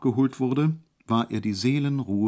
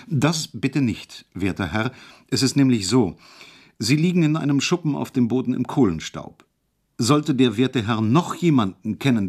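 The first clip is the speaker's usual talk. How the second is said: mildly emphatic, earnest insistence; with great emphasis. A narrator's reading. Hejula insisting to the professor, a touch emphatic. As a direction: press each point a little firmly. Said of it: "mit großem Nachdruck".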